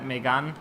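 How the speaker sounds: "Megane" with a French "a", meh-GAHN, drawn out at the end; careful French "Megane", stress on GAHN. Shown as a demonstration. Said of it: "I should probably say it like that".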